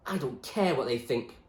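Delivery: fierce. Acted. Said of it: "he said fiercely".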